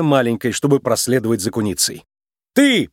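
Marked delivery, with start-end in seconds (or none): 2.5-2.9 high, loud bark; officer shouting at the thief; full-voice shout. A narrator's reading. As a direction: yell at the top of your lungs. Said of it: "прокричала она во весь голос".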